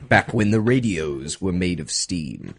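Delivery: put-on slow reminiscing old-timer voice; lightly hammed old man nostalgia; playful old-fashioned storyteller; mock old-timer. Joins the steam bit.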